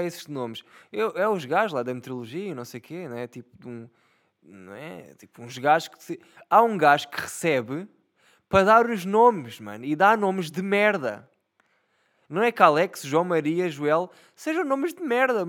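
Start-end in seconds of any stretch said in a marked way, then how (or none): 6.5-15.5 higher and louder, indignant ranting; outraged rant. Real, not acted. Fed up with whoever names the storms, loud indignant rant. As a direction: rant about it, pitch up and loud.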